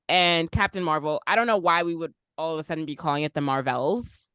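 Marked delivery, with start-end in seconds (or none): 3.3-4.3 "Marvels" as mar-VELS, lifting at the end; stress on second syllable. Shown as a demonstration. Host puzzled why people say it so, "Marvels" as mar-VELS. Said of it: "putting a strange emphasis on".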